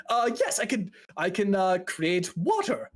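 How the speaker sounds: lightly voiced flustered mage; a hint of high, nervous hesitation; anxious fella. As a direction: stammer while scrambling for a fix. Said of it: "anxious fella kind of walks up to you".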